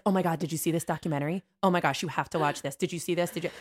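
fast, gushing over a documentary; mock-eager rapid gushing; excited gushing. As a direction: rattle it off breathlessly, eager. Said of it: "Victoria's always like".

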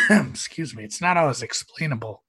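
throat catching after swallowing wrong; talking through a choke; choking. Real, not acted. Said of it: "I swallowed something funny".

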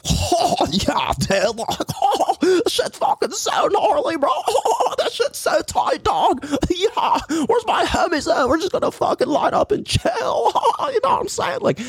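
high, laughing stoner-surfer bro voice; mocking his own chill bro voice, pitched high. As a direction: send up your own laid-back bro talk. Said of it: "I sound like".

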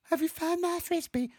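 very high, put-on child's voice; squeaky imitation of a small child; little child. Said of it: "then a little child goes".

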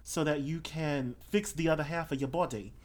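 Australian self-styled expert; Australian eccentric. Acted. Explaining the way back to the fairy world, Australian accent. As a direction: play an Australian know-it-all. Plays Australian game character Florals in Spring.

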